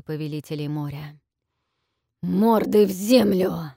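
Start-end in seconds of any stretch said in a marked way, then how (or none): 2.2-3.7 loud, slow roared order; roaring dragon. A narrator's reading. Dragon roars at the kneeling captives, loud roar. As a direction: roar it like a beast. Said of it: "проревел ящер".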